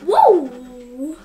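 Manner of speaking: sharp loud surprised whoa. Real, not acted. Reacting to the silver weight.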